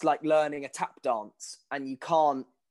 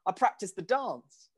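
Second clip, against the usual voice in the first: higher-pitched retold comeback; mock-proud reply; 5 semitones higher than usual. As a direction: answer as if it were obvious, pitched up. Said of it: "And I was like".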